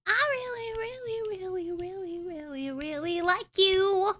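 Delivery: put-on a second go at a sweet Irish accent, high; attempted Irish accent. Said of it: "But I need to tell you something".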